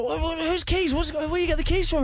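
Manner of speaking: high, baffled questioning; retold alarm. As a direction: act out confused questions to the intruder.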